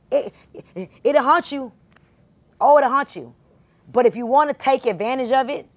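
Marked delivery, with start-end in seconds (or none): 0.1-3.3 loud, high warning from the pulpit; loud preacher's warning that it'll haunt you; preaching warning. Real, not acted. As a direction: call it out so the back row hears.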